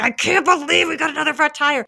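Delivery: fed up, like your second flat this week; mother stuck on the roadside with another flat tire, exasperated; frustrated disbelief. Retold or imitated. Mom gripping wheel, second flat.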